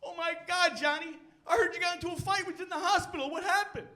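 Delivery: nosy excited coworker. Retold or imitated. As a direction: act shocked and nosy. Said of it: "a totally different coworker".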